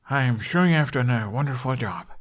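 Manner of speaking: put-on gentle, gracious praise for a proud young girl; said kindly. Hiccup praises Katul's needlework, kind and gentle. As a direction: kind and reassuring, lightly voiced. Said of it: "he said kindly".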